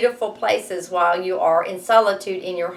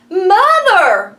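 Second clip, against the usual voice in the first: higher, louder urgent call; Jack cries out; 11 semitones higher, 10 dB louder than usual. Acted. Teacher voicing Jack calling his mother, urgent shout. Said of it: "cried Jack".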